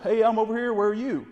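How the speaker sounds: a hen calling to find the flock; voicing the hen. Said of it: "answer with another yelp".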